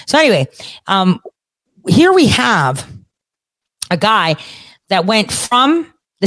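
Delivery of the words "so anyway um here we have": normal talking voice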